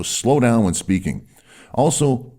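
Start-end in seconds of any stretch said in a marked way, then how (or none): 0.0-1.3 slow, deliberate. Shown as a demonstration.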